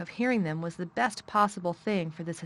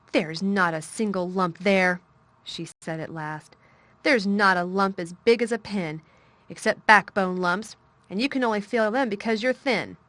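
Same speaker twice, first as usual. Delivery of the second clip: firm, bossy; 6 dB louder than usual. Acted. Mary lecturing Colin firmly.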